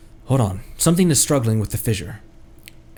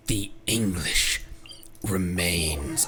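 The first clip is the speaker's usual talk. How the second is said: low, slow and softer, ominous herald; deep villain whisper-growl for the Abyss Herald; 7 semitones lower, 9 dB quieter, much slower than usual. Retold or imitated. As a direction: intone it like a doom-laden herald. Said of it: "in my Abyss Herald voice".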